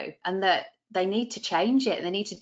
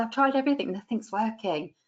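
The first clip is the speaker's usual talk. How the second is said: weary client; 3 semitones higher than usual. Retold or imitated. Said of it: "They'll say".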